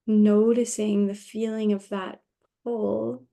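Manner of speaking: unhurried meditation guide with long pauses; lightly hushed yoga nidra guidance; guided meditation. Acted. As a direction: gently lead them into rest, leaving space between phrases. Leads rest meditation.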